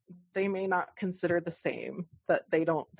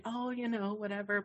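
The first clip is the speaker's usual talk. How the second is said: dismissive; 4 semitones higher, 7 dB quieter than usual. Retold or imitated. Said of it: "Usually I would be like".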